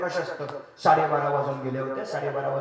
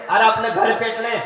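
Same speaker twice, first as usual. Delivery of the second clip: put-on old man wailing; 6 semitones higher, 10 dB louder than usual. Old man wails reply.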